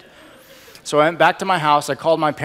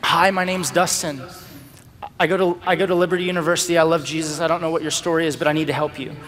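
nervous rambling; 2 semitones higher than usual. Retold or imitated. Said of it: "And I just start rambling".

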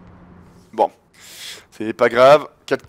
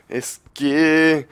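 slow boasting taunt; much slower than usual. Real, not acted. Teasing opponent, music playing.

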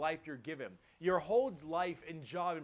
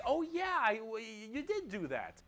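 much higher, meek orc grunts; sheepish orcs; 6 semitones higher than usual. Acted. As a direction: squeak it out like caught-out orcs. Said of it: "all the other orcs are like".

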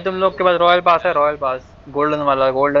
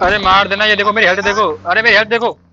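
alarmed plea; 4 semitones higher, 4 dB louder than usual. Real, not acted. Alarmed plea about low health.

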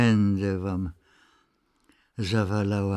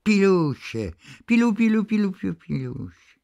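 sing-song high call to goslings, much higher, fading at the end; calling geese; 7 semitones higher, faster than usual. A narrator's reading. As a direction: coax the goslings with a lilting call. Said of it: "Nawoływała gąsięta".

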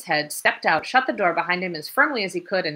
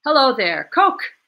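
calling out; 7 semitones higher, 9 dB louder than usual. A narrator's reading. Greeting someone across stairwell.

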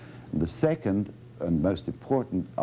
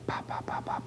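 mock voiced ba; 8 dB quieter, faster than usual. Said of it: "You were going".

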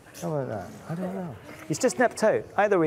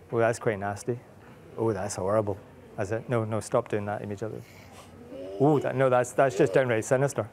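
mock horror; 4 semitones lower than usual. Parent reacting to child's nasty glare, mock horror. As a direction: pretend to be scared of the glare. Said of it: "Could you give me a really nasty glare?".

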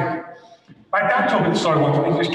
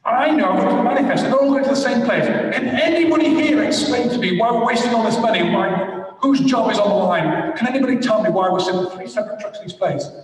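retelling a boss's indignant rant, a touch raised; a hint of an exasperated boss grilling his engineers; mildly angry boss; 4 semitones higher than usual. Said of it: "I'm mad".

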